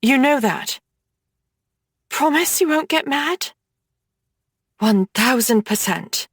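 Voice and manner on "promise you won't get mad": put-on higher, shaken teenage voice; a scared sister telling bad news; upset little sister. Nora asks nervously.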